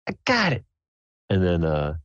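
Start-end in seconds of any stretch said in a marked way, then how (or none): 0.1-0.6 very high, squeaky character voice; Sable. Acted. Player's character after hitting the anvil, high-pitched triumph. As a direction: pipe up far above your own pitch. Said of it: "Sable's like".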